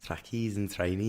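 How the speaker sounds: Scouse catchphrase demo; imitated Scouse accent. Showing friend how the girl says it, Scouse accent. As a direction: show the phrase as a Scouser says it. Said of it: "that's how she does it".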